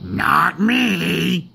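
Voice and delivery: high, puffing objection; puffed, pompous engine. A narrator's reading. Gordon sets himself apart, puffing grandly. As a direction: puff it out with self-importance. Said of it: "puffed Gordon".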